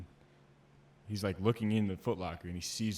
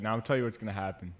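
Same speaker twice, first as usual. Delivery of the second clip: lightly imitated instructor laying down punishment; loud opening, settling as it goes; drill instructor; 5 dB louder than usual. Drill instructor announcing burpees to recruits, lightly mock-threatening. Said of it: "He's like".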